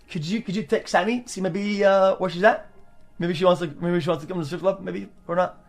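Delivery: hushed and hesitant; sheepish quiet ask. Retold or imitated. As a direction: ask softly, a bit embarrassed. Timid request to his agent.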